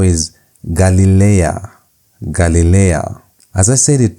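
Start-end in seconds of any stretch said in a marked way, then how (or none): 0.6-1.7 Galilea read out carefully; model reading. Shown as a demonstration. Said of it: "Pay attention to how I'm reading". 2.2-3.2 Galilea repeated slowly for learners; model reading. Shown as a demonstration. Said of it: "Pay attention to how I'm reading".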